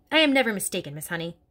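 lightly voiced stern headmistress; a hint of a bullying headmistress, scornful; Trunchbull voice. Headmistress sneering about little girls to Miss Honey, scornful.

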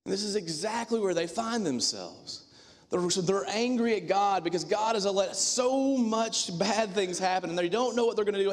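loud, slowed, pounding sermon build; fiery preaching. Acted. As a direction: preach it out hard to the congregation. Preaching at full force.

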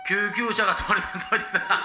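救急車が通ります broken up by giggles; can't keep a straight face, laughing; laughing through the line. Acted. Ambulance crew announcing to traffic, breaking into laughter. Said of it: "同じこと何回も言って笑ってまうね".

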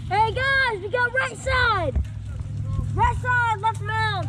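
loud, high team callout; shouting callouts. Real, not acted. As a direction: yell the positions to your squad. Calling positions to teammates.

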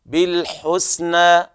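بالحسنى with the final vowel held two beats; مد طبيعي حركتين; tajweed demo. Shown as a demonstration. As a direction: stop on بالحسنى, stretch the last vowel two counts. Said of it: "الوقوف على المد الطبيعي بمقدار حركتين".

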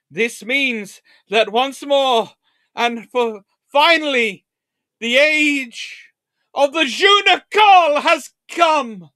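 building from slow and loud to a high, slow ecstatic shout; triumphant proclamation. Acted. Lecturer hailing the age of the Junicole, rising to an ecstatic shout. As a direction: herald the new era like a town crier gone wild.

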